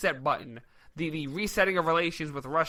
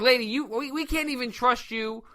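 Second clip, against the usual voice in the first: higher, drawn-out protest; exasperated retort; 5 semitones higher, 3 dB louder than usual. Acted. Host imagines telling off the candidate, exasperated retort. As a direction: stress the distrust slowly, pitched up. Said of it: "And I'm like".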